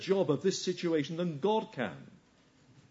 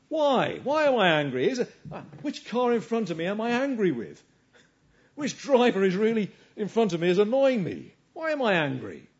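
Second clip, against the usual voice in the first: frustrated driver; 5 semitones higher, 4 dB louder than usual. Acted. Frustrated driver voicing his anger.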